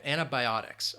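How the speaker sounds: antibiotics with a clear BY in the middle; stress on bi. Shown as a demonstration. Teacher repeating antibiotics for learners, stress on bi. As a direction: lean on the bi of antibiotics. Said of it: "that stress is on that bi".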